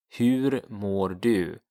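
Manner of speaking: teacher repeats the question to learners; Swedish question. Shown as a demonstration. Teacher drills hur mår du slowly. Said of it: "the order is of course switched".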